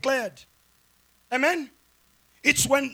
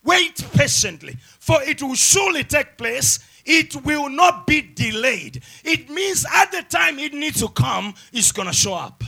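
emphatic preaching; 3 semitones higher, 4 dB louder than usual. Real, not acted.

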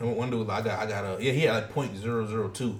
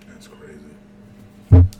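slow, loud, stretched-out amazement; drawn-out loud exclaim; 5 semitones lower, 19 dB louder, much slower than usual. Real, not acted. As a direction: drag it out, loud and low. Amazed reaction to dark web.

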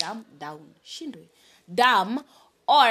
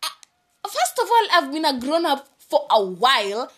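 louder, higher indignant retort; 3 semitones higher, 6 dB louder than usual. Retold or imitated. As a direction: snap back, offended. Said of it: "Niko like".

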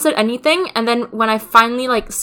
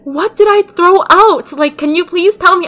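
higher, slow imitation of a worried mom; concerned mom; 7 semitones higher, 4 dB louder than usual. Mom asking what was thrown out, in a lightly voiced worried tone. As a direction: act out mom's mild concern. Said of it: "she looks so concerned".

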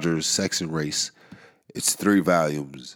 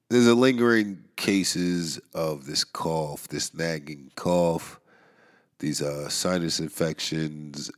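calm, slow; slower than usual. Real, not acted. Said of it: "I'm trying to go into this just so calm".

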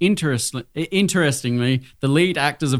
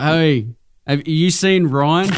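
put-on drunk friend voice; 4 dB louder, slower than usual. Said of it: "he's like".

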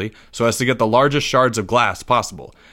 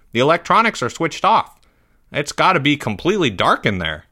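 put-on higher-pitched teenage employee; puzzled teen voice, pitched up; teenage Mike; 5 semitones higher than usual. A narrator's reading. Game truck employee puzzled by dark trailer, teenage voice. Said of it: "the voice that used to belong to Mike".

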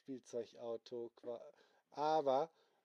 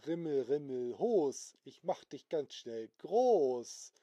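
spell casting; 7 dB louder, slower than usual. Acted. Character casts a growing spell.

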